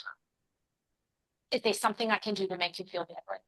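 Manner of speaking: a heartfelt apology, said gently; sincere apology. Shown as a demonstration.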